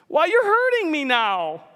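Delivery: high, pained complaint; hurt ghost. Acted. Ghost feeling the angel's heat, high pained whine. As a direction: wince as you say it.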